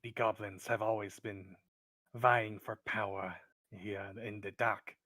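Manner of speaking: lightly voiced wary kobold, deliberate phrasing; a touch of suspicious cave creature. Kobold tells the adventurer about goblin rivals, wary.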